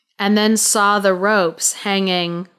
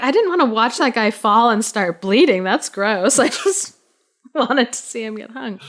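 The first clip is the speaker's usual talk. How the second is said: fast, put-on voice of a spectator, laughing midway; playing a squeamish onlooker for laughs; a hammed-up disgusted bystander who wanted a clean hanging; mock disappointed spectator; 3 semitones higher than usual.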